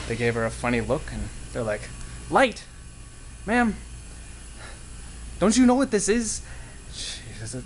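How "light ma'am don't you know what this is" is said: incredulous sailor. Acted. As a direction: act amazed she doesn't know.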